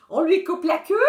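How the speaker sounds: put-on high, loud naughty-kid question; lightly voiced mischievous boy; bratty child. A narrator's reading. Bratty twin suggests cruelty.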